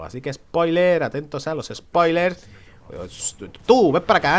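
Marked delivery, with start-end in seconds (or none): 3.6-4.4 loud taunting call to an enemy. Real, not acted. Gamer taunting an enemy, loud call. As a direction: shout him over, daring him.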